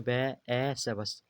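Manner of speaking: "बस" split into बै, ए, से, then blended; sounding out. Shown as a demonstration. Teacher showing u read as ए, sounding out "बस". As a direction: give each sound of "बस" separately, then join them. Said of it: "यू को ए पढ़ा गया".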